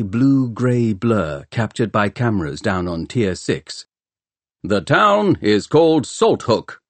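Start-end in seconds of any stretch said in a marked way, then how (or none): 4.6-6.8 higher, slow booming public announcement; booming announcer. Acted. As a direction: boom it out to the crowd like a broadcaster. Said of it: "boomed the voice of the announcer".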